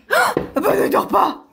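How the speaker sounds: playful excitement. Pretend. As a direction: burst out in play surprise. Playful discovery child awake.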